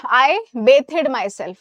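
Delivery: very slow, clearly spaced words; slow wrong example. Shown as a demonstration. Teacher slowly reads a wrong sentence to students. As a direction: read the error out slowly for the class. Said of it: "गलत।".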